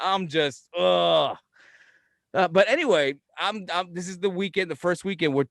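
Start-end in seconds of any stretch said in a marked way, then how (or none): 0.8-1.4 fed-up "ugh"; exasperated groan. Real, not acted. Uncle venting about raising relatives' kid, exasperated groan. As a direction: let out a groan of frustration.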